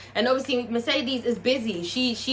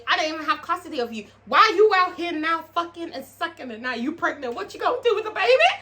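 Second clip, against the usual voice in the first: scolding mother; 4 semitones higher than usual. Pretend. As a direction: scold your daughter like a furious mum. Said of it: "I would have to kill my child".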